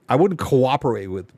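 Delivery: ordinary talk, nothing marked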